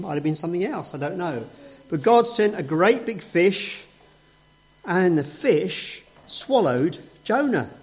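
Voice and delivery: ordinary delivery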